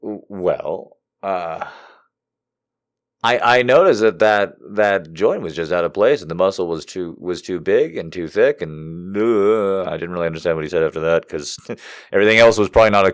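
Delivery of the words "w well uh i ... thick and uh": low, softer, hesitant imitation; mock-casual professional mumbling along. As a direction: explain it offhandedly with "uh"s. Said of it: "just very casually says".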